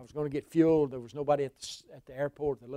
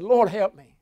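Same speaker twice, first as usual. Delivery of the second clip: pleading cry; 5 semitones higher, 10 dB louder, slower than usual. Retold or imitated. Crying out to God again.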